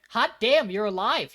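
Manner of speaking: high, loud burst of amazement; retold excited greeting; delighted surprise. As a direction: exclaim it like a happy shock.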